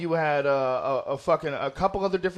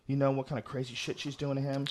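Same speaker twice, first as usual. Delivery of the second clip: normal talking voice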